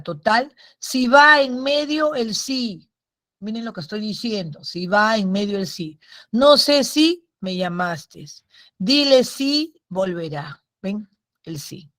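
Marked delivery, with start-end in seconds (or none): 0.8-2.9 slow and raised on "si va en medio el sí"; drawn-out teacher's emphasis on "si va en medio el sí"; emphatic rule. Shown as a demonstration. Teacher stressing the key rule. 6.3-10.6 slow, lingering on "si" before going on; deliberate teacher's examples with "si" set apart; stress on si. Shown as a demonstration.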